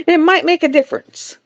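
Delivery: said through a light laugh. Real, not acted. Teasing a viewer about her name, laughing. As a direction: chuckle the words out. Laughs during chat reply.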